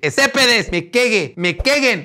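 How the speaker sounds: "Estépedes" and "me queguen" said as a teasing -e parody; mock inclusive language. Vlogger mocking inclusive speech to insult commenters. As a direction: play up the made-up neutral endings. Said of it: "en lenguaje inclusive".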